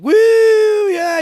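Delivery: high whooping yell; mock cheer. Friend imitates the drunk guy cheering at the party, high whoop.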